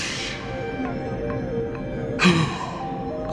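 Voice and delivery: long, drawn-out gasp; theatrical gasp. Acted. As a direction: breathe in with sudden inspiration. Villain's theatrical moment of inspiration.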